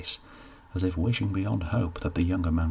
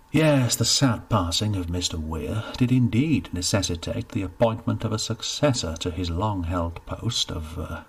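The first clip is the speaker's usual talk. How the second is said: stiff official, lightly voiced; measured, self-important announcement; a hint of a pompous parish steward; 3 dB louder than usual. Steward's formal speech.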